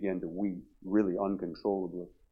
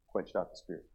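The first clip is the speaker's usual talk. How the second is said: solemn refrain; 2 semitones lower, 7 dB quieter than usual. Real, not acted. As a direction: drop right down and say it simply. Quiet refrain answering loud questions.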